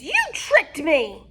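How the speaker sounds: slow, loud, high witch snarl; witch anger. Acted. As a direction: drag out the betrayal. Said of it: "yelled Bony Legs".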